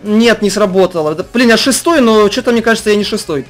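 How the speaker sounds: normal talking voice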